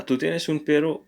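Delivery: perro lifted at the end; question intonation. Shown as a demonstration. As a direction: ask it, voice rising on perro. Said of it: "That would be the question".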